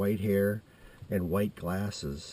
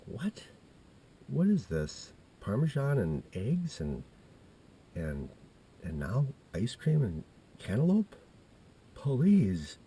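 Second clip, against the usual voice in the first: high, drawn-out disbelief; incredulous; 3 semitones higher, slower than usual. Retold or imitated. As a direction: question it as if it's absurd. Disbelief at odd food pairing.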